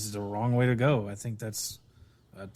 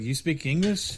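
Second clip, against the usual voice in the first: higher-pitched imitation of astonishment; mock incredulous; 6 semitones higher than usual. Game hero to talking Sasquatch, mock incredulous. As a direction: raise the pitch as if acting out disbelief. Hero amazed the creature talks.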